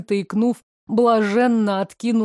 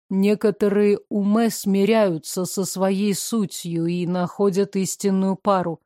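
emotionless; 2 semitones lower than usual. Acted. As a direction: say it without feeling. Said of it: "безэмоционально продолжил Севери".

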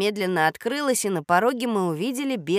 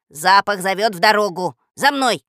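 leading call; 8 dB louder than usual. Acted. Рекс ведёт за собой.

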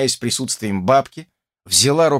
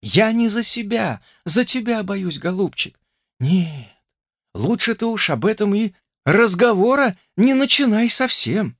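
put-on tender young woman; 9 semitones higher than usual. A narrator's reading. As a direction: comfort him, gently sad. Olesya continues.

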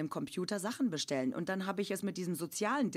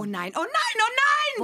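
mock dismay; 9 dB louder than usual. Absurd comic dialogue, mock despair.

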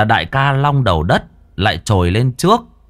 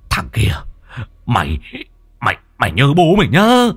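threatening; 2 semitones higher than usual. Acted. Angry boss threatens after hit.

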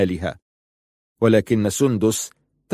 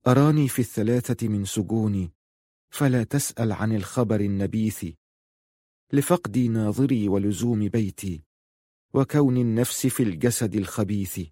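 softer, measured classical verse; poetry recital; 5 dB quieter than usual. Acted. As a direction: recite the sad old poem quietly. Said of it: "ألقي علينا بعض الشعر".

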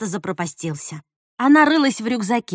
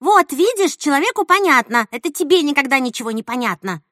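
higher and louder, heated; 4 semitones higher, 5 dB louder than usual. Acted. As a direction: throw it back at her mother. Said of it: "запальчиво сказала Настя".

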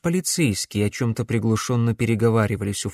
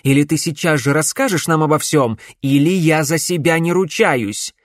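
threatening; 5 semitones higher, 5 dB louder than usual. A narrator's reading. Threat at arrowpoint.

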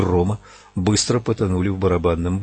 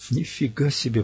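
whispered; 3 semitones higher, 6 dB quieter than usual. A narrator's reading. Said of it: "прошептал Джейк".

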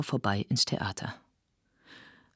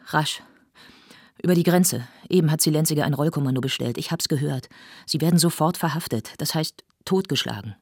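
fast, louder alarmed warning; urgent warning; 3 semitones higher, 3 dB louder than usual. Acted. A colleague warns Lotte to flee at once, urgent and fast. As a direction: rush her out the door.

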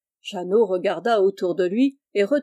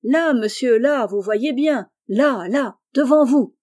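insistent, building louder to the end; exasperated pointing out; 3 semitones higher, 5 dB louder than usual. Acted. Grocer showing a baffled foreigner the door, exasperated. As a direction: spell it out for someone who won't understand.

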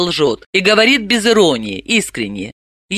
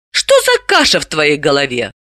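weary; 3 semitones lower than usual. Acted. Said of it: "устало спросила она".

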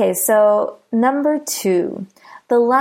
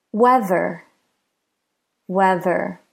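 "Weather" with WEA stressed, ther light; stress on first syllable. Shown as a demonstration. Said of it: "the we in weather is stressed".

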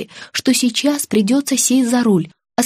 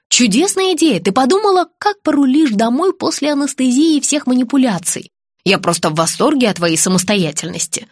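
sarcastic praise; 3 semitones higher than usual. Acted. Friend scolding her driving plan, sarcastic. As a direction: praise it with heavy irony.

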